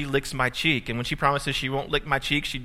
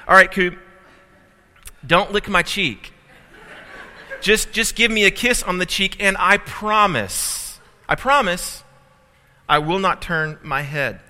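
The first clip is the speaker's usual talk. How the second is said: pleading dad; 5 semitones higher, 5 dB louder than usual. Retold or imitated. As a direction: beg her sweetly not to lick. Father pleading with daughter.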